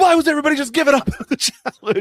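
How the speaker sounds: very high, loud, blustering, hotheaded yell. Retelling a reality-show contestant's outburst after a challenge: imitating Danny yelling. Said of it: "Why are you yelling?".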